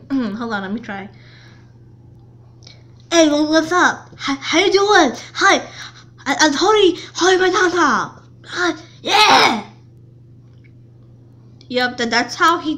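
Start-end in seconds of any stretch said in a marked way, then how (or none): 3.1-9.6 high, loud, funny-talking schoolmate voice; exaggerated loud, higher voice with stumbling speech; Tony impression. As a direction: imitate a guy who talks really funny, hard to understand. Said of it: "his impression".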